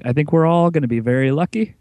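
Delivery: put-on old radio announcer. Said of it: "I'm your old-timey radio announcer all of a sudden".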